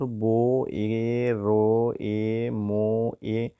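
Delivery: ब, ए, र, ए, म, ए drawn out slowly, each sound apart; sound-by-sound spelling. Shown as a demonstration. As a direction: stretch each sound of बेरेमा: ब, ए, र, ए, म, ए. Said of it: "गारांनि रिंसारथिया बबेयाव दङ होनना नायनोसै". (ब, ए, र, ए, म, ए लासै गोलावै रिंसार)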